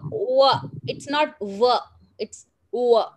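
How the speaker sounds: "wa" with rounded lips, a true w, not v; w sound. Shown as a demonstration. Teacher showing children that "wa" is not v. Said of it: "the difference between V and W".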